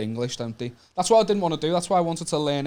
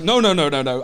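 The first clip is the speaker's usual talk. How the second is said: adamant dad; 6 dB louder than usual. Retold or imitated. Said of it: "and he's like".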